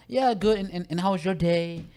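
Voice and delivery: high-pitched chirpy reply, imitated; imitation of an eager small-talker; mimicked friendly passenger. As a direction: play the chatty passenger, pitched well up.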